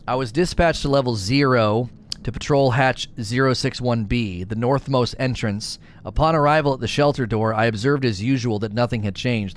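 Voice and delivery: mild smug sarcasm in a dull report; a bored guard, lightly sarcastic; sarcastic and smarmy. Acted. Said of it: "so sarcastic and smarmy".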